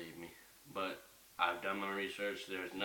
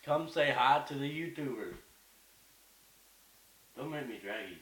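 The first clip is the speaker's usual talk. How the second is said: calling the dog; 6 semitones higher, 7 dB louder than usual. Real, not acted.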